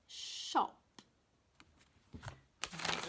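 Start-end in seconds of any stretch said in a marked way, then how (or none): 0.1-0.8 "Shop" whispered, long sh; whispered word. Shown as a demonstration. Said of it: "with a sh at the beginning".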